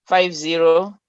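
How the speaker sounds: real careful read-out for a note-taker; slow dictation. Real, not acted. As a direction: dictate the number piece by piece. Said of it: "I'll ask you to say it slowly".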